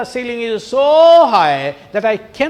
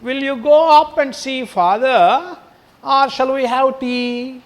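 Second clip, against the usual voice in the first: brisk, matter-of-fact offer, a little higher; practical, no sorrow in it; businesslike; 5 semitones higher, 3 dB louder than usual. Acted. Teacher rereading Mrs Slater's question, brisk and businesslike. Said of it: "in a businesslike, uh, tone".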